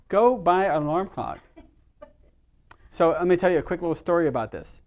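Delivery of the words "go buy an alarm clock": emphatic command. Real, not acted. Urging audience to ditch phones.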